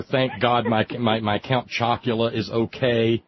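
mock-relieved, ponderous delivery; mock smart aleck. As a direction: play a chat-room wise guy, drawn out. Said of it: "smart Alex in the chat room".

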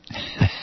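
brief, soft laugh under the breath; scoffing chuckle. Real, not acted. Commentator on a peace council meeting the Taliban, scoffing chuckle. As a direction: let out a small derisive chuckle.

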